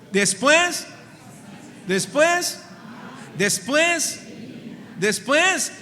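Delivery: preaching cadence. Real, not acted. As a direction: build the congregation's call-and-response. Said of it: "léalo conmigo".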